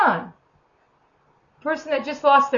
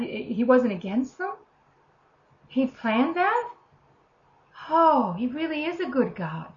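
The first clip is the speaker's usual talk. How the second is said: amazed awe. Retold or imitated. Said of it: "absolute awe".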